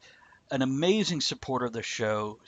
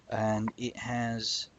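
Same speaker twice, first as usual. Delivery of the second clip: hushed; 5 dB quieter, slower than usual. Real, not acted. Savoring aged tobacco description.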